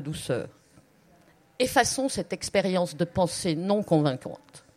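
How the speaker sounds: measured literary reading aloud; story narration. A narrator's reading. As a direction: read the prose to an audience. Reads a short story aloud.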